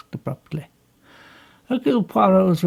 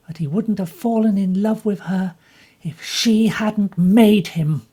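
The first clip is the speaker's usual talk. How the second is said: higher, bitter and defensive; bitter young woman; 5 semitones higher, 3 dB louder than usual. Acted. Jacqueline bitterly tells Poirot what happened. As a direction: push back at him with bitterness.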